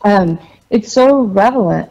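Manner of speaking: words round ice cubes; ice in mouth. Real, not acted. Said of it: "I have ice in my mouth".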